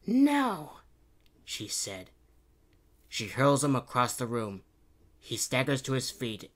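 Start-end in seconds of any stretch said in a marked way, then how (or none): 0.1-0.8 high, loud heroine refusal; refusing princess. A narrator's reading. Princess Kitty refusing to strike the Baron, high voice.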